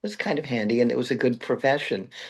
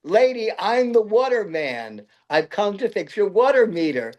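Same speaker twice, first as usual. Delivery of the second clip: meter man explaining; 8 semitones higher than usual. Retold or imitated. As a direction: spell it out patiently to her.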